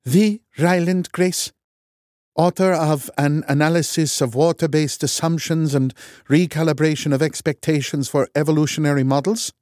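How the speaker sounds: stunned recognition; surprised. A narrator's reading. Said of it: "She actually backed away".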